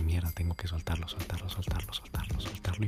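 whispered to himself in mock panic; a retold whisper of nerves; panicked whisper. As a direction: whisper it urgently under your breath. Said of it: "sentí ese miedo".

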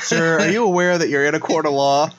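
measured stern question from the bench; stern judge. Pretend. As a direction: calmly scold the defendant.

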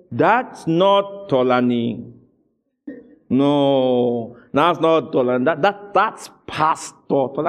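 very slow, drawn-out astonishment; amazed disbelief. Retold or imitated. Listener after the wife's preaching, slowly amazed. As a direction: stretch each word in mock amazement.

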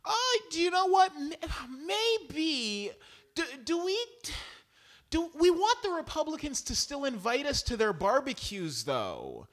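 high, hesitant mock voice; lightly voiced dithering centrist; parodying Democrats fretting over barbecue invites; mocking timid Democrat. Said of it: "these people are like".

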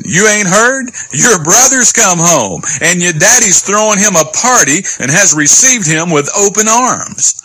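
high-pitched bearer of big news; excited servant. Acted. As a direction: break the news with a lifted voice. Servant breaks news to brother.

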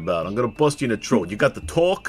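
fast tough Brooklyn talk; hammed-up Brooklyn threat, quick; Brooklyn accent. Shown as a demonstration. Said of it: "That's a Brooklyn".

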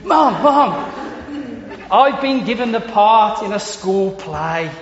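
put-on excited Scottish boy bursting in to tell his mum, laughing. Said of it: "I can't do the accent".

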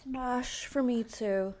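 slow, drawn-out delivery; a slight slow celebrity-like lilt; Jennifer Coolidge. Real, not acted. Host giving her smash or pass verdict, lightly Coolidge-like drawl. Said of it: "you sounded like Jennifer Coolidge".

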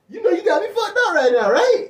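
high-pitched laughing mimicry; amused, pitched-way-up clip impression; imitated video clip. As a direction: squeal the viral line through laughter. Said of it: "You know that video said".

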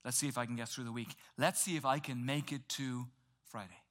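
low, soft and worn-out; exhausted weekly grumble; weary groan. Retold or imitated. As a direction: drag it out like a tired Monday. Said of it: "how many of us are like".

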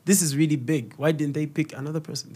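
a hint of a parent drawling in awe; mock impressed parent. Parents marvelling at their son the influencer. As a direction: stretch it out, half amazed. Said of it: "that's when they believe now".

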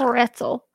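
Pretzel as "PRET-ul", T sounded, with a laugh; careful standard pronunciation. Shown as a demonstration. Woman finds Pretzel hard for her mouth, says "PRET-sul" laughing. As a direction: laughingly work through the T in Pretzel. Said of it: "I don't like it".

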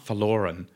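verloren, R lightly voiced; barely touch the R in verloren; verloren with slight R. Shown as a demonstration. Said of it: "putting a slight R on their R".

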